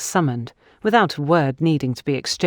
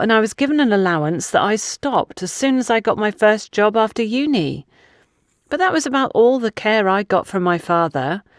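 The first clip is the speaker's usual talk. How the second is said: lightly higher, hurt and pressing; aggrieved woman; 4 semitones higher than usual. Acted. Gabrielle rejecting the idea that she was favoured, a touch of hurt. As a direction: let the old hurt push through the questions.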